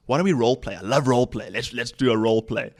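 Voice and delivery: punchy, keyed-up quoted suggestion; mock over-the-top intensity. Hyped-up guest proposing a role play, mildly intense. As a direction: act a touch wired and eager. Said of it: "extreme intense".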